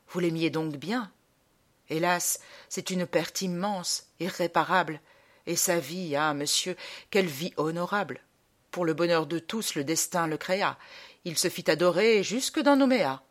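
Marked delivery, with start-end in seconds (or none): 0.1-10.8 understated, subdued eulogy; mournful condolence. Acted. Old gentleman consoling the supposed mourner, mournful condolence.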